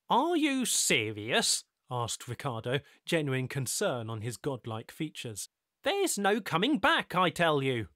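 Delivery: concerned disbelief. Acted. Ricardo in genuine concern.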